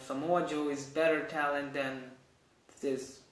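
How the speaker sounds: low, softened aside; said carefully. Real, not acted. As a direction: drop your voice for a guarded opinion. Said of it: "I'm going to say that slowly".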